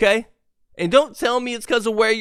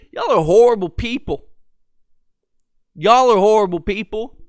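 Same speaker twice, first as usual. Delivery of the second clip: exasperated louder rant; 3 semitones higher, 6 dB louder than usual. Real, not acted.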